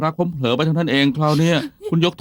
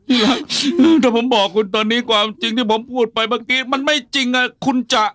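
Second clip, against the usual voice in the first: desperate pleading; 6 semitones higher than usual. Acted. Husband pleads, retracts confession.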